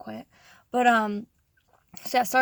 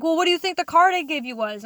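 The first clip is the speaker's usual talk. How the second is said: imitated boss arguing, higher and louder; mock-indignant question in a raised voice; exasperated boss; 5 semitones higher, 6 dB louder than usual. Boss challenges worker about the card he gave, exasperated.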